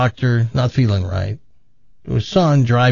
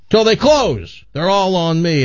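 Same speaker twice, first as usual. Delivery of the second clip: dad's toast; 6 semitones higher than usual. Acted. Dad announcing over cheering buddies.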